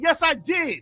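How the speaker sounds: high, sharp insistence; angry shout. Real, not acted. Heated argument on stream.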